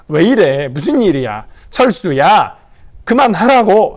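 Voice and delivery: urgent mother. Acted. Mother stopping child's fight.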